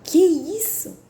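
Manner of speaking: high, loud startled "what's that?"; mock the husband's shocked outburst; husband's startled reaction. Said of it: "que o meu marido". (marido espantado, agudo e alto)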